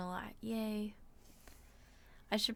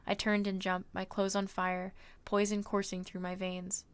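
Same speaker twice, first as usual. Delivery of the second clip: story narration. A narrator's reading. Streamer reading a novel to viewers, measured narration. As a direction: read the adventure aloud with steady pacing.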